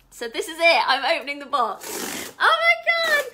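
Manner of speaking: real excited squeal, high and loud; freaking out. Real, not acted. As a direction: build to a very high shriek. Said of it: "yeah, I'm freaking out".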